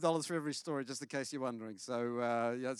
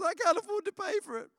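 put-on much higher, louder little-boy voice; worried little boy; 6 dB louder than usual. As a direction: plead like a kid fearing the bill. Son worried about cost.

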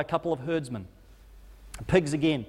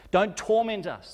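pleading much higher and slower; demons begging; 7 semitones higher, 3 dB louder than usual. Acted. Demons begging Jesus not to torment them, high desperate pleading. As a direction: beg for mercy, drawn out and frightened. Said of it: "start begging with Jesus".

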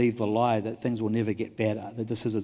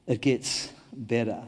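slowed, each word weighed; slow deliberate repeat of the promise; slow emphatic assurance; 3 semitones lower, 4 dB quieter, slower than usual. Shown as a demonstration. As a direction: let it land slowly and firmly. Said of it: "I have a message for you this morning".

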